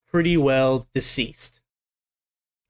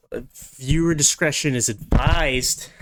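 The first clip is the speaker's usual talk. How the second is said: a slow, deadpan hint of a TV disclaimer; mock announcer warning; slower than usual. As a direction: read it like a tongue-in-cheek broadcast warning. Mock TV warning after gore.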